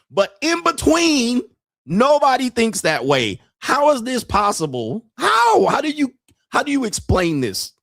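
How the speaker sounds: high-pitched, baffled disbelief; incredulous. Real, not acted. Streamer asking viewers how the bubble is possible, incredulous. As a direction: pitch leaps up, demanding an explanation.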